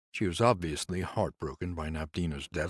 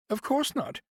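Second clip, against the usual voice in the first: grieving nurse. Acted. Nurse complains to Conrad about the house, higher voice. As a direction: lift into the nurse's aggrieved voice.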